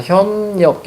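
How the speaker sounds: 현역 said with an n opening the second syllable, "-nyeok"; assimilated pronunciation. Shown as a demonstration. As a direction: demonstrate 현역 syllable by syllable with a nasal n in 역. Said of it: "얘는 우리가 이렇게 바뀝니다".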